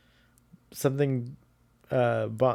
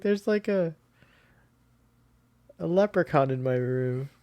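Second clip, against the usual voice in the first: mock excited girl; 4 semitones higher, 4 dB quieter than usual. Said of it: "She's like".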